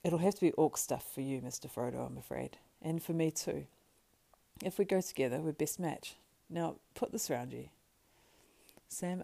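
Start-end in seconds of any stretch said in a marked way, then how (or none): 0.0-7.7 lightly voiced helper taking charge; loyal, practical Sam. Sam plans Frodo's disguise, loyal and practical.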